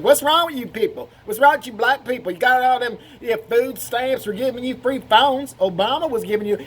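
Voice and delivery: mock an indignant old bigot; hammed-up accusatory rant; racist older man. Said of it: "a racist white guy who's sixty would say that".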